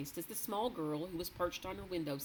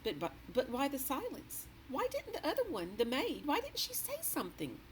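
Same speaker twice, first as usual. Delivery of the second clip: anxious Sophie; 9 semitones higher than usual. A narrator's reading.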